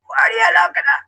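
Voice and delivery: high squeaky mock of a gawking stranger; mock the staring people in a high silly voice; mocking shrill voice. Woman mocks gawking airport strangers, squeaky high mock voice.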